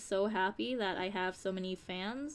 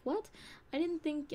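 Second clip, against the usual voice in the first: retold surprise; 8 semitones higher than usual. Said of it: "sometimes it surprises them".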